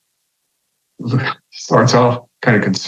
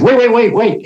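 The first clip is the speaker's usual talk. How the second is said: pleading call, pitched up; urgent call; 10 semitones higher than usual. Retold or imitated. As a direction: call him back before he leaves. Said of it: "And I said".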